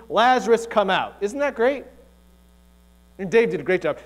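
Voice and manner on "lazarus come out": loud, commanding call into a tomb; booming shout. Acted. Jesus calling his dead friend out of the tomb, booming shout. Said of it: "He shouts into the tomb".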